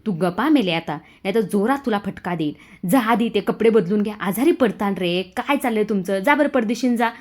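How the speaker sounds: mother angrily sending them to change clothes; angry scolding. Acted. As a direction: threaten and shoo them away. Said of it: "आता माननी चिडते".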